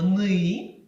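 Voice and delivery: ни with a hard н and a back и; ни: hard н, dark и. Shown as a demonstration. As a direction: say ни firmly. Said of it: "твердо скажемо".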